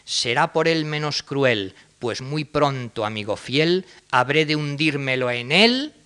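hammed-up verse recital; playful theatrical reading; comic verse reading. Shown as a demonstration. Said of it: "Les leo ejemplos de Muñoz Seca".

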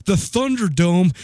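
slow, drawn-out disbelief; mock alarmed echo. Storyteller echoing his scared friend, mock alarmed. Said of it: "He's like".

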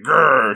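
mock growl of anger; short acted grr of frustration; angry growl. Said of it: "she's really angry".

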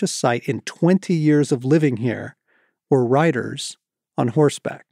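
measured read-aloud with deliberate pauses; book reading. A narrator's reading. Author reading a chapter to an audience, measured storytelling.

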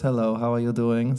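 breathy mock German accent of his wife; lightly put-on German lady voice; German wife impression. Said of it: "She has a voice like this".

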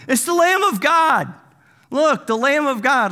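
high, loud mock holler; comic yelling. John yelling whenever Jesus rolls up, comic yelling. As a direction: yell it out like an overexcited herald. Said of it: "John just starts yelling".

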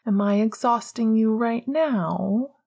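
mock innocence, lightly played; a touch of faked innocence; overly innocent. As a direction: bat your lashes with your voice. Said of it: "in an overly innocent tone".

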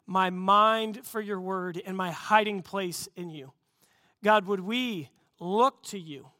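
steady, earnest prayer voice; closing prayer. Acted. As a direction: pray it over the congregation. Pastor prays closing prayer.

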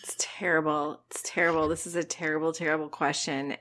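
soft, near-whispered despair; anguished hush over a cruel choice; hushed dismay. Real, not acted. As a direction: breathe it out in defeat.

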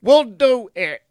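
hammed-up childish yes-man; mock obedient child. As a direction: play the meek little kid who swallows everything. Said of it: "We're going".

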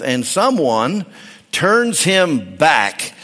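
measured reading of James, slowing on "turns him back"; scripture reading. Acted. Preacher reading James five to the congregation, measured. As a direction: read the verse deliberately to the church.

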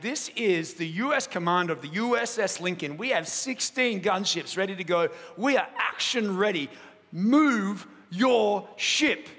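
lightly voiced commander laying down an ultimatum; commander's threat. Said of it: "the captain came back and said".

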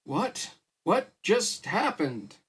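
stretched-out announcer's cry; shouting emcee. A narrator's reading. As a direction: call it out like a startled announcer, slowly. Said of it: "shouted Wallace, the M C".

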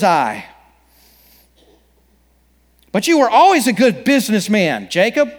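a hint of a mournful ghost; unearthly voice. Pastor voices Marley's ghost.

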